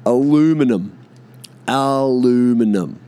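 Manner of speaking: "aluminum" in four syllables, stressed on LOO; American pronunciation. Shown as a demonstration. Mocking Americans' word, American pronunciation. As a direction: hit "aluminum" as a-LOO-mi-num. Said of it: "Fucking Amer".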